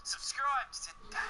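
high, slow salesman plug; hammed-up promo voice; mock ad plug. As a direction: sell it like a cheesy ad.

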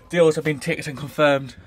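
breathless after screaming with joy; panting between words; out of breath. Real, not acted. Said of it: "I'm out of breath".

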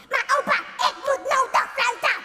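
put-on high insistent little boy; pleading child. Jantje insists to his grandpa, high childish whine.

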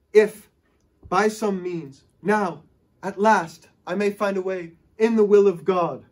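eager stop-start delivery; stuttering in excitement. Retold or imitated. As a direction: stumble through it excitedly. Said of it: "He stutters in excitement".

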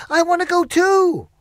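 put-on high, loud childlike wail; pleading scream. Dorothy left behind, pleading loudly. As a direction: beg not to be left behind. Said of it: "she screamed".

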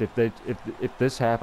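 tripping over the start of the phrase; stuttering. Real, not acted. Gamer warning he'll be annoyed, stuttering. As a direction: stumble and restart on "if". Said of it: "I know I'm stuttering a lot".

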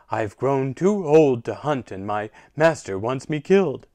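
a worn-out hunting dog pleading; sad old hound voice. Acted. Hound complains of his master.

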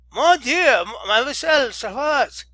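loud, high "Mon Dieu" cry; alarmed cry. Acted. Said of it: "here cried a dozen voices at once".

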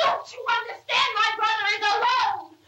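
begging him to understand; desperate. Real, not acted. Arguing with the man, pleading.

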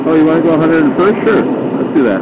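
bike voicing a casual, willing reply; lightly voiced, carefree yes; easygoing bike voice. Rider voicing his R6 agreeing to go fast, carefree. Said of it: "R six just doesn't care".

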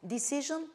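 Decision with short i, dih-SIZH-un, rising; correct decision again. Shown as a demonstration. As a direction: repeat Decision the right way. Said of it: "pay attention to its pronunciation".

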